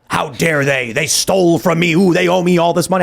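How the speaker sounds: hammed-up indignant whining, mocking the idea; mock outrage. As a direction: pretend to be greedy and offended, half-joking. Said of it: "I did not say".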